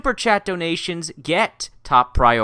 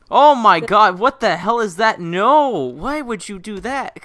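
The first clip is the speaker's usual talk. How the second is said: higher and louder, appalled; shocked; 6 semitones higher, 5 dB louder than usual. Real, not acted. Streamer seeing Rose's Twitter page, shocked outcry. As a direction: gasp it out in horror.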